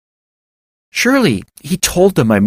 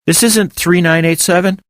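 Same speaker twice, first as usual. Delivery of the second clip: hint of exasperation; 10 semitones higher than usual. A narrator's reading. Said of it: "with a hint of exasperation in my voice".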